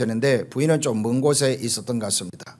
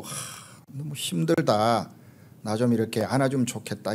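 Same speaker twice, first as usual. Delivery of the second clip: weary sigh; 3 semitones lower, 7 dB quieter than usual. Retold or imitated. Exhausted wife quietly wishing her husband would hug her, soft weary sigh. Wife's real tired feeling voiced.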